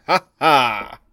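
punchline-capping "ha ha"; self-satisfied joke laugh; triumphant "ha ha". Real, not acted. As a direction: cap your own joke with two separate ha's. Caps own joke with spelt-out laugh.

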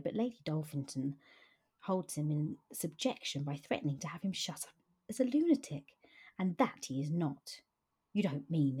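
reading a Regency novel aloud, voicing Freddie and Kitty lightly; lightly voiced characters in a read-aloud novel; story reading. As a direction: read the scene aloud like an audiobook. Reads novel passage aloud.

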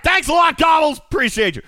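loud, high sarcastic thanks; sarcastic shout. Pretend. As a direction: yell the thanks with mock bitterness.

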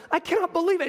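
excited disbelief. Acted. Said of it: "she's so excited".

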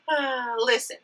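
pitching pens to a Kentucky business owner, flirty; flirty sales pitch. Shown as a demonstration. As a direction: keep the sales charm going. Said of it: "I'm gonna do it for you now".

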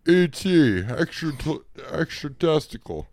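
high, loud, slow movie title shout; announcer shout. Pretend. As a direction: bellow the title like a trailer.

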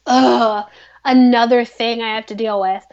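groaning, fed-up mock complaint; exasperated. Acted exasperated reaction to bad news.

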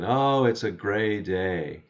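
slow, lightly imitated Russian accent; a hint of grandmother's Russian accent, drawn out. Glum grandmother answering her visiting grandchild, light Russian accent. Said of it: "with her thick Russian accent".

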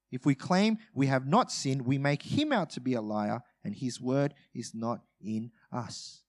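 measured reading of a Bible passage; scripture reading. Acted. Preacher reading scripture to the congregation, measured. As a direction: read the verse out steadily to the church.

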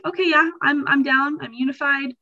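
bright, eager yes with a lifted pitch; eager agreement. Retold or imitated. Church member agreeing with leaders, eagerly upbeat. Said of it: "people feel like".

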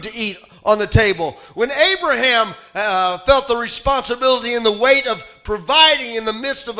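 animated pulpit storytelling; preaching. Real, not acted. Preaches with rising force.

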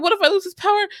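very high, loud comic wail; mock panicked tirade. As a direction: wail it in hammed-up panic, close to laughing. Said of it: "goes into this whole tirade".

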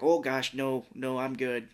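lightly imitated Fargo Minnesota accent; polite refusal with a touch of Minnesota; William H. Macy in Fargo. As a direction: slip into a folksy Fargo accent. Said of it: "I'm doing that voice".

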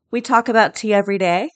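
talking through a yawn. Real, not acted. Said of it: "Sorry for the yawn".

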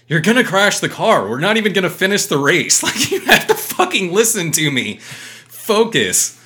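high, loud frantic pleading; imitating a frantic co-driver begging the driver to focus, loud and high; mock freaking out. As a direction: panic like the car is about to crash. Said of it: "he's freaking out".

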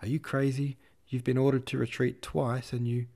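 high, loud breathless yelling; breathless shout. A narrator's reading. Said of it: "shouting at him in breathless voice".

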